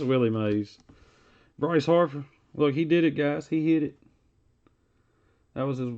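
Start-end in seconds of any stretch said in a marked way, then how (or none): 1.6-4.0 excited. Real, not acted. Pulls Harper hit card, excited.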